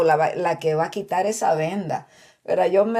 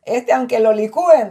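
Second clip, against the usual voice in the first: louder, hopeless complaint about her husband; exasperated sister; 3 semitones higher, 6 dB louder than usual. Retold or imitated. Sister giving up on her husband, louder and exasperated. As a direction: throw up your hands over him. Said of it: "decía".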